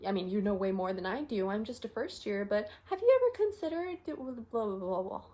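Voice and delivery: overly deferential junior doctor; careful, non-challenging. Acted. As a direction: tiptoe round a disagreement, tailing into filler. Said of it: "a way that doesn't sound like a challenge".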